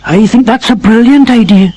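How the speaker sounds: dog Sultan. Acted.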